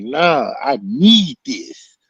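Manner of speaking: slow whispered need; breathless whisper. Retold or imitated. Teller to the teacher holding him back, slow whisper. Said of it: "And I'm like".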